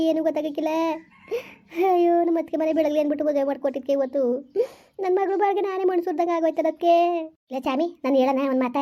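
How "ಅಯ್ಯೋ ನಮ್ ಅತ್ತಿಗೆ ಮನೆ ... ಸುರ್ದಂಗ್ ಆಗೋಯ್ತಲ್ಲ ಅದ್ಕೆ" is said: weeping through the words; sobbing out her regret, tearful; crying lament. Acted. Mother cries over the marriage she arranged, weeping.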